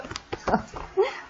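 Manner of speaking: quick unvoiced laugh at a slip; breathy laugh. Real, not acted. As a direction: laugh off the mistake.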